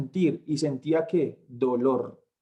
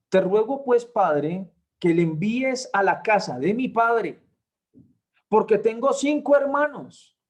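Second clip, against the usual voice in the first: raised, urgent pleading voice from torment; pleading rich man; 2 semitones higher than usual. Retold or imitated. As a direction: beg father Abraham from the flames. Rich man begs Abraham.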